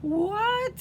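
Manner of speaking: high, loud rising what. A narrator's reading. Froggy shouting back to his mother, high and loud. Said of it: "said Froggy".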